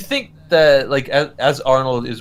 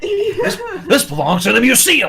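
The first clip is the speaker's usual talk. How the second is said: excited exclamation; 13 semitones higher than usual. Pretend. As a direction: proclaim it like a discovery. Joking quote, big pitch jump.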